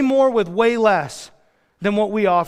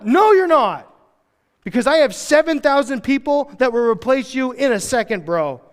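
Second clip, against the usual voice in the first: emphatic retort; 5 semitones higher than usual. Retold or imitated. God answering Elijah.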